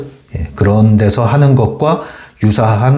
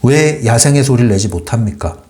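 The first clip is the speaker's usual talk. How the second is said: usual speaking voice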